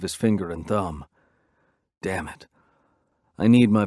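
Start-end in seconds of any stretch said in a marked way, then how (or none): 2.0-2.5 soft muttered damn it, much softer; quiet curse. A narrator's reading. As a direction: mutter Damn it under your breath, softer. Narrator's quiet private curse.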